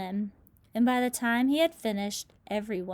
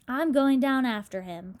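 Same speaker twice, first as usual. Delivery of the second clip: louder bold declaration; determined cry; 3 semitones higher, 6 dB louder than usual. Acted. James vows to dive after the centipede, loud cry. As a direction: announce it with resolve. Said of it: "cried James".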